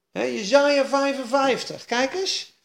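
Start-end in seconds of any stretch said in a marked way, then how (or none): none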